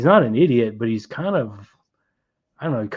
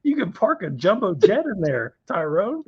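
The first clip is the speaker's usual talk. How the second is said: higher, whispered teasing; mock whisper; 8 semitones higher than usual. Teasing Tyrone about a huge parking space, in a whisper. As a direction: hiss it at him in disbelief.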